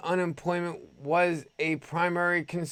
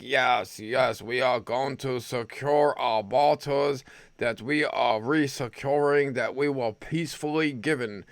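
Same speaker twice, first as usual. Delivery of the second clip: a lightly put-on, clumsy Russian accent; mock Russian official, barely accented; hammed-up Russian accent that hardly lands; bad Russian accent; 4 semitones lower than usual. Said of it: "it was a horrible Russian accent".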